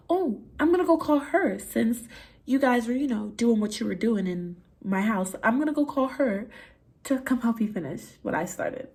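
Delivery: high-pitched, airy mock-casual announcement; retold breezy taunt. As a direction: toss it off high, as if obviously reasonable. Tells how she taunted him.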